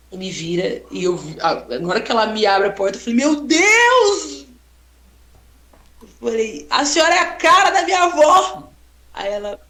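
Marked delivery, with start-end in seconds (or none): 3.1-4.4 louder, higher gasp of amazement; retold amazement. Seeing the old lady at the door, louder amazed exclamation. 6.7-8.7 higher, louder amazed telling; can't believe the likeness; excited exclamation. Retold or imitated. Telling the old lady she looks like her grandma, higher and louder.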